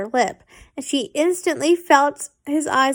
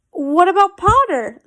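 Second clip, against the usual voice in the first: louder, higher protest; 5 semitones higher, 5 dB louder than usual. A narrator's reading. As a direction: push back, indignant. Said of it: "Theo protested".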